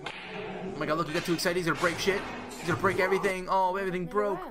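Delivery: high, loud, hammed-up gushing over every clip; sarcastic fake excitement. Streamer mocking a meme compilation for chat, in sarcastic overexcited gushing. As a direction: gush over the memes like a delighted kid, dripping with sarcasm.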